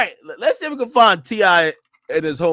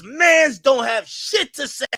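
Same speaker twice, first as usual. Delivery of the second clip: put-on Jamaican accent; 10 semitones lower, slower than usual. Jamaican accent repeating a rapper's put-down. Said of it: "when Jamaicans talk, they go like this".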